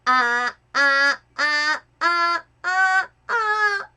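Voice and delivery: pinchy rising ah. Shown as a demonstration. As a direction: squeeze it tight and climb up. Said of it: "a more pinchy".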